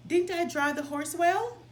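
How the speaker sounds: put-on proud boy. A narrator's reading. Tom boasting to his father about driving, proudly. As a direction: show off to Dad.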